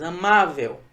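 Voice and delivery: "Amável" com força no MA; tônica na penúltima. Shown as a demonstration. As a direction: acentue bem o meio de "Amável". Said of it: "é a penúltima". (sílaba tônica forte em "má" de "Amável")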